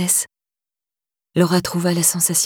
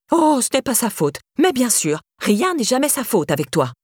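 high, sarcastic mimicry; mocking; 5 semitones higher than usual. Stepmother mocking the father's excuse, sarcastic. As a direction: throw his words back at him.

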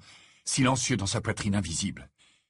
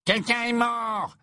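put-on much higher, strained young voice; voice jumps up; slower than usual. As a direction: panic pushes the voice up high. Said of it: "d'une voix qui sembla monter d'un octave".

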